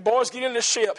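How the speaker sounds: firm command. Retold or imitated. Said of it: "He constrained them".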